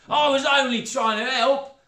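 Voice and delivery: high, loud stepmother voice; squeamish, careless stepmother; coarse stepmother. A narrator's reading.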